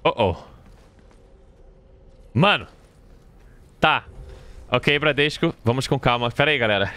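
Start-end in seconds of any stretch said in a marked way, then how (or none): none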